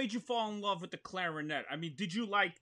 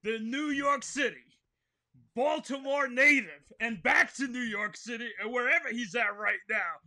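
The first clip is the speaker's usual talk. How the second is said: announcer intro; 2 semitones higher, 3 dB louder than usual. Acted. Host presenting the guest, hammed-up announcer style.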